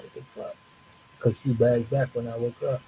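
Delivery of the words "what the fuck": hushed, breathless whisper. Retold or imitated. Staring at the see-through girl, a stunned whisper. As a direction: say it under your breath in awe. Second reaction to the ghost.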